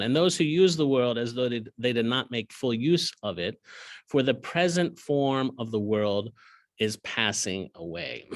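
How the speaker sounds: slowing toward the end; scripture reading. Acted. Teacher reading the verse to his class, slowing down. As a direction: let the last words settle.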